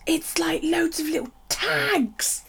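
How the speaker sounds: awed whisper. Real, not acted. Awed whisper over stuffed box.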